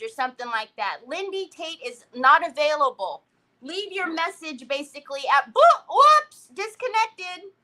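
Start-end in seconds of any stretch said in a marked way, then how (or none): 1.1-7.5 mock answering machine. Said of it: "And she says".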